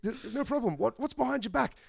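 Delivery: high, laughing bad Irish accent; breaking up in a bad Irish accent; attempted Irish accent. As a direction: keep the Irish accent going through a laugh. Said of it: "Can't do an Irish accent".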